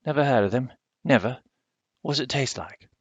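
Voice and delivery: put-on old countrywoman scoffing at bananas; indignant country woman. Missus Owens doubts bananas.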